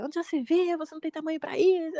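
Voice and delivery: mock the father's scolding without shouting; pai bravo gritando. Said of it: "e gritou assim". (imitação leve do pai gritando bravo)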